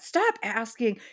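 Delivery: "Stop asking" snapped quick and indignant; mock upset crowd. Street crowd scolds the dreamer, "Stop asking" snapped indignantly. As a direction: shut down "Stop asking" fast and sharp. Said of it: "everyone on the street got upset".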